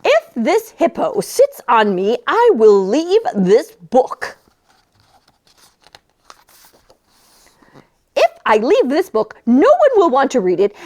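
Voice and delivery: a lightly voiced worried dog; a hint of a pleading dog.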